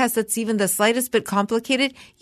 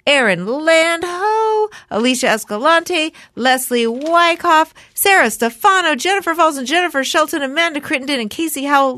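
political sing-song voice; 3 semitones higher than usual. Pretend. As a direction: announce each name like a grand speech. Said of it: "in my political sing-song voice".

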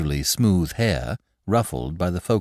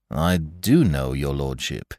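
reproving; 4 semitones lower, slower than usual. Acted. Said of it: "said Mister Graves reprovingly".

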